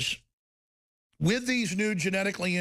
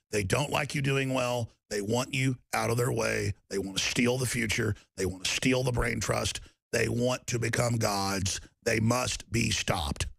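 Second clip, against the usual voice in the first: grave warning; 6 semitones lower than usual. Real, not acted. Solemn warning about the enemy.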